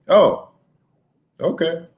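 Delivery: imitating a reluctant teen's short reply; halting, mildly unsure mock agreement; hesitant teenager. Son answering dad's request to trade for him, hesitant. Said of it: "I sensed a little hesitation".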